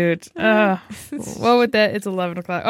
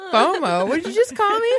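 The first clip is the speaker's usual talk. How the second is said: "fomo?" asked high, building to a squeaky laughing "What did you just call me?"; mock offended; 10 semitones higher than usual. Host reacts to her friend's slang, mock offended disbelief. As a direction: act insulted by a strange word, half laughing. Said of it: "I'm like".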